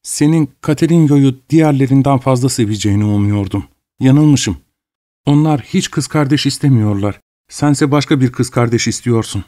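lightly voiced mother, gently reproachful; a hint of a wounded mother pleading; hurt mother. Mother scolding her son for rejecting the girl, hurt and gentle.

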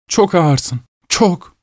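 high-pitched teasing call; mock the pursuer in a high voice; high, goading character voice; taunting wife. A narrator's reading. Wife taunts the chasing husband.

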